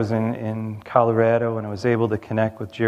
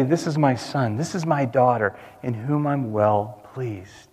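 tender voice of God; 4 dB quieter than usual. Acted. God's voice spoken over listeners.

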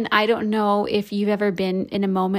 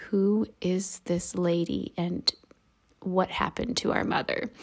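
hushed whisper, half scared; stunned kids' disbelief; 4 dB quieter than usual. Retold or imitated. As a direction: breathe it like shocked children. Kids staring in utter disbelief.

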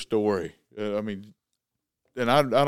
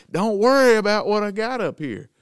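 mock Grizzly; 8 semitones higher, 6 dB louder than usual. Voicing Grizzly's reply.

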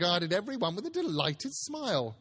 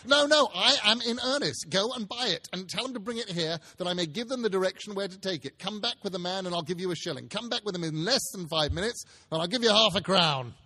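louder, quick, urgent instructions; eager Scrooge; 3 semitones higher, 4 dB louder than usual. Acted. Scrooge sends the boy running for the turkey, eager. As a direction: press the boy to hurry, barely containing excitement.

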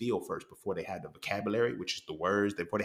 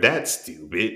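dismissive put-down; louder condescending dismissal; 3 semitones lower, 5 dB louder, much slower than usual. Retold or imitated. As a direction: belittle them with it. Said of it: "in such a condescending way".

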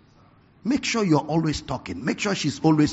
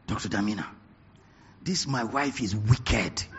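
mild mock complaint; 6 semitones lower, 7 dB quieter than usual. Friend complaining quietly about his wife.

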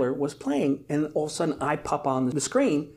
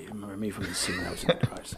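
mock rehearsal; 5 semitones lower, 7 dB quieter, faster than usual. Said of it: "rehearsing in my head".

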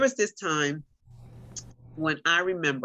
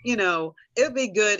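breezy doctor; 6 semitones higher, 5 dB louder than usual. Retold or imitated. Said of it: "they're like".

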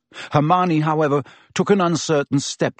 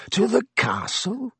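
silky; 9 semitones higher than usual. A narrator's reading. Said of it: "said Snape silkily".

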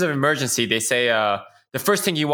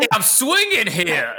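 slow, hammed-up Boston accent, a bit higher; mock Spider-Man Boston accent, laughing through it; bad Boston accent, drawn out; 7 semitones higher than usual. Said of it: "like, a Boston accent is the movie Spider-Man".

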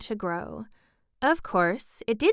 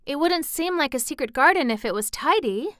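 put-on higher girl's voice, a touch worried; anxious; 7 semitones higher, 3 dB louder than usual. A narrator's reading. Mary fearing for her secret garden, mildly anxious. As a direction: object with mild anxiety. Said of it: "said Mary anxiously".

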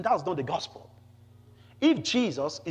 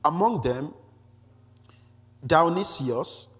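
emphatic, slightly raised public reading; scripture reading. Acted. Preacher reads Paul's Athens speech to the congregation, emphatic scripture reading. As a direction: read the passage out firmly to a congregation. Resumes reading the passage aloud.

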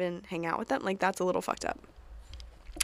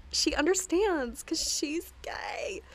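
whisper; 8 semitones higher, 4 dB quieter, slower than usual. Real, not acted. Gossipy aside about Cheryl.

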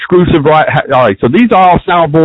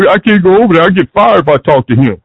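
mimicking fireman; 5 semitones higher than usual. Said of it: "we can all hear him say".

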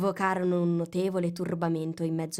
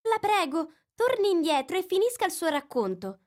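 high pleading call; calling after; 11 semitones higher, 4 dB louder than usual. A narrator's reading. Alice calling the mouse back to finish his story. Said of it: "lo chiamò Alice".

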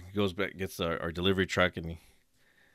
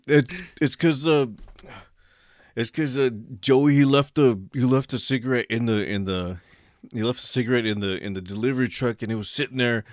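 sheepish excuse; 2 semitones higher than usual. Retold or imitated.

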